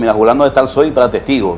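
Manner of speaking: plain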